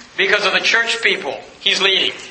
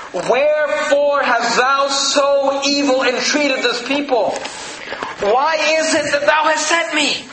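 high, slow lament; lamenting Moses; 4 semitones higher, slower than usual. Acted. Moses complaining to the Lord, high and slow. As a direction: stretch it out as a pained complaint.

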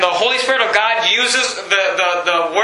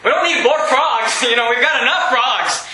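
a higher, incredulous protest about the frogs; fed-up king who has had enough frogs, laughing; preacher imagining himself as Pharaoh, exasperated; 3 semitones higher than usual. Pretend. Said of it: "I would be saying".

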